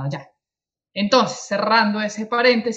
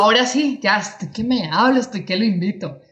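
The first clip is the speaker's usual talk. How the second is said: raised, eager host voice cutting in; eager excitement; 2 semitones higher, 3 dB louder than usual. Real, not acted. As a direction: jump in, can't wait to start. Host eager to introduce guest.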